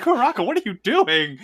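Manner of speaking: high, loud, laughing call. Retold or imitated. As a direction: shout it while cracking up. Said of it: "they're like".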